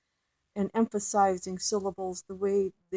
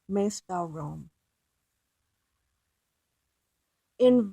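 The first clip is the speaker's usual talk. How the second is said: measured, deliberate verse reading; poem reading. Acted. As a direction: read the poem aloud with care. Reads poem aloud.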